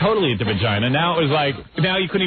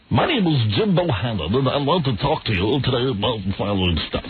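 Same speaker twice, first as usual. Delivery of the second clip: Jim Bohannon voice. Retold or imitated. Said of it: "He's a phony".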